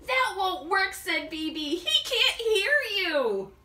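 urgent worry; anxious objection. Acted.

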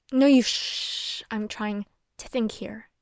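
drawn-out shush; hushing someone to think. Acted. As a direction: cut them off with a long, slow shh.

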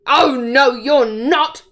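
loud troll roar. Acted. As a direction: bellow it to stop the goat. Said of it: "roared the troll".

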